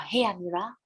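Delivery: coaxing, flattering offer; a lightly voiced smooth recruiter; sweet-talking British. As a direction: lure Amira in with honeyed praise. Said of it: "I cakap ke Amira".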